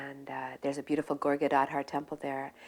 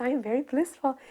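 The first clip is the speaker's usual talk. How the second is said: put-on high, louder old man's voice; voicing the old man; 7 semitones higher, 3 dB louder than usual. Old Vrindavan resident telling his visitors, high and proud. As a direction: lift into a much higher, eager old man.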